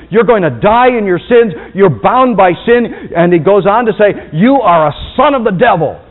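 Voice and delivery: loud, blunt pronouncement; stern uncompromising rebuke; cold, uncompromising Jesus. Retold or imitated. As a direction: lay down judgment without softening. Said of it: "He's cold. He's uncompromising".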